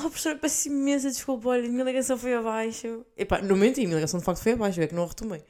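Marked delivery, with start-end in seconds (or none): 0.0-3.0 higher, sweetly apologetic excuse; apologetic student voice. Retold or imitated. To the teacher, excusing her dropped call, sweetly apologetic. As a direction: play the innocent student making excuses. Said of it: "voltei a entrar na aula".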